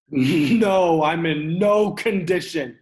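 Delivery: loud, laughing scoff; bitter retort. Acted. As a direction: throw the words back mockingly. Son bitterly throws words back.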